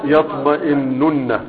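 يطمئنن said slowly with the doubled نّ held; slow model. Shown as a demonstration. Teacher modelling يطمئنن slowly for pupils to repeat. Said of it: "انطقوها".

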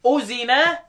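drawn-out Quranic recitation of one word; slow recitation. Shown as a demonstration. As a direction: stretch the word as in tilawa. (ترتيل بطيء للكلمة)

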